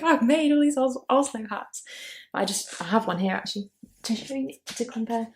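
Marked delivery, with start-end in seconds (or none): 0.0-1.8 excited. Retold or imitated. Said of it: "and I'm just like".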